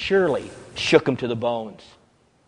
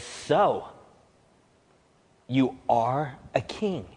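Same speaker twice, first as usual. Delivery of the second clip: shaken; 3 semitones lower, 7 dB quieter, slower than usual. Acted. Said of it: "We know that Pilate was shaken".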